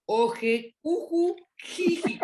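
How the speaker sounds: jumping up high on silly syllables; playful high-pitched mockery; mocking nonsense words. Mocking invented gender-neutral endings.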